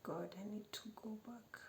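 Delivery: soft pleading whisper to God; hushed prayer. Retold or imitated. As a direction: pray it under your breath.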